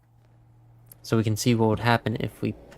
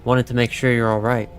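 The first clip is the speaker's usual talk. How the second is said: reading a dialogue option; 8 dB louder than usual. Acted. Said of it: "we can say".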